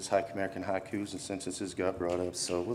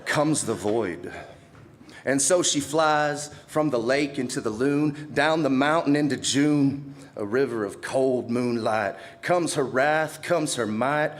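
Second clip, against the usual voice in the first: high-pitched, ringing incantation; measured, dramatic poem delivery; poetry recital; 5 semitones higher, 4 dB louder, slower than usual. Acted. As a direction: declaim it like a spoken-word poet. Recites own poem at open mic.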